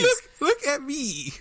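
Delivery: high, slow, booming puppet god voice; alien overlord. Acted. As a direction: loom over them, commanding and slow. Puppet demands attention.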